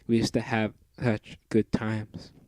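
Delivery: dying robot. Acted. Dying robot's last words.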